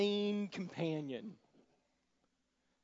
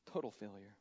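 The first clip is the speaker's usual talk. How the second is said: "Total failure" repeated softer and lower, TOTAL leaned on; quiet echo; 6 semitones lower, 6 dB quieter than usual. Shown as a demonstration. Preacher echoing "Total failure" about Peter's denial, quiet and heavy. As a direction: drop it down and let it sink. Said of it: "repeated for weight".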